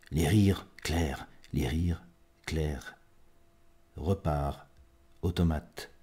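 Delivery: measured poetry reading with long pauses; spare, solemn recital, phrase by phrase; poem recitation. Acted. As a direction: let each fragment hang in silence, swelling then fading.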